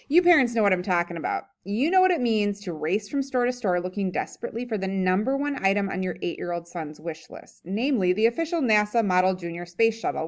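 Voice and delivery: lively, emphatic story reading; humorous read-aloud. A narrator's reading. Reading a comic essay to a class, animated read-aloud. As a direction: read it aloud with punchy key words.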